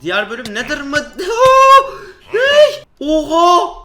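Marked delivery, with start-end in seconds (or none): 1.0-2.2 high shrieking burst of laughter. Real, not acted. Player laughs at being boxed in, high shriek of laughter. 2.3-3.8 high, loud startled yell; startled shout. Real, not acted. Player caught off guard by mobs, loud high startled yell. Sudden attack in game.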